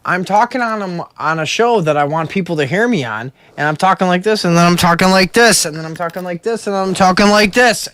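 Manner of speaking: mockingly lurching between voices; overdone impression of a careless co-host; exaggerated mimicry. Shown as a demonstration. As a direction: ham up a bad mic technique. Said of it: "I'm exaggerating".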